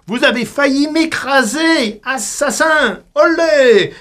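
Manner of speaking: high, indignant yell at the driver; hammed-up accusing cry; mock outraged cry. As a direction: play the innocent victim, loudly. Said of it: "je crie".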